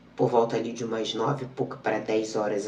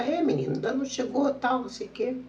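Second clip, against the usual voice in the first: high, bright-voiced nurse imitation; mock nurse voice; 10 semitones higher than usual. Nurse's reply retold, voiced high.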